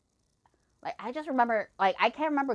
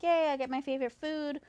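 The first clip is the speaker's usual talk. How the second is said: mildly excited, higher-pitched yay; light happy cheer, retold; pleased little burst of anticipation; 4 semitones higher than usual. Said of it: "I was super excited".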